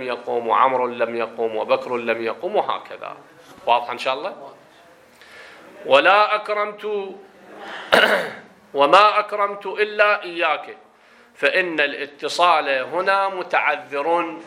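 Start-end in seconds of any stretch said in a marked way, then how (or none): 5.9-14.4 formal reading, higher at first, then slowing down; reading aloud. Acted. Teacher reading why attachment is impossible, slow formal reading voice. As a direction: read out the text deliberately in classical Arabic. Reads the grammar text aloud.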